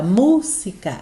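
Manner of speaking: "música" with the MU leaned on and lengthened; stress on first syllable. Shown as a demonstration. Teacher shows students the strong syllable, stress on MU in "música". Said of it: "a mais forte é qual?".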